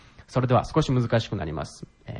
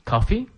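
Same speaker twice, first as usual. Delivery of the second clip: コーヒー？ with the last syllable rising high; rising question tone; 9 semitones higher than usual. Shown as a demonstration. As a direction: pitch the end of コーヒー？ sharply up. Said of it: "語尾を上げるのがポイント".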